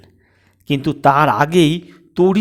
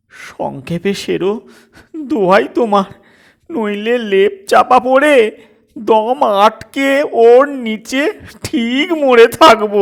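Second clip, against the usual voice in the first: pleading; 6 semitones higher, 3 dB louder than usual. A narrator's reading. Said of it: "কাতর অনুনয়ের দৃষ্টিতে".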